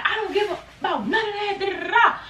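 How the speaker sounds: high dismissive mock voice; imitating Crystal. Friend retold not caring in the club, high mock voice. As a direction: wave it away like a brat.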